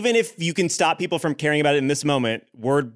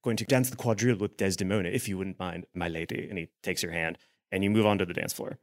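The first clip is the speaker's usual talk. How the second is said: much softer, low dismissal; cold duke; 7 semitones lower, 5 dB quieter than usual. Acted. Duke turning away to dance, quietly cold. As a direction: coolly take your leave.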